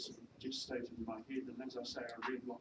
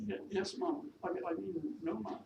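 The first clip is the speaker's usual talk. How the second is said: flustered, higher-pitched Welsh maid; attempted Welsh accent; 6 semitones higher than usual. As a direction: stammer and correct yourself, Welsh-accented. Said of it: "my attempt at a Welsh accent".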